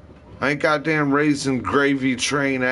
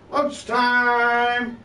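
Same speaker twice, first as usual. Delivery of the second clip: repeated call; 9 semitones higher than usual. Retold or imitated.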